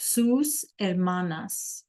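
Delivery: slow model reading. Shown as a demonstration. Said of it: "What's an hermana?".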